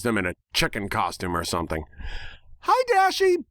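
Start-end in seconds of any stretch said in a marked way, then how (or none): 2.7-3.4 much higher, excited pony hello; enthusiastic pony greeting. Acted. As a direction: greet your friend like a hyper cartoon pony. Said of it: "Pinkie enthusiastically waved".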